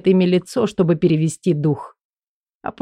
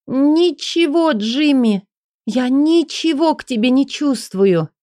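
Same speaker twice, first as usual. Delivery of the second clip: Элли's voice; 8 semitones higher than usual. Acted. Элли forcing denial, higher.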